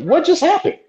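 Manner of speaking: high, rattled retold exclamation; stunned retelling. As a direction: blurt it out in shock. Retelling shock to friend.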